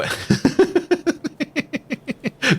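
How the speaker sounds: a high, falling burst of laughter; amused laughter at a viewer's guess. Real, not acted.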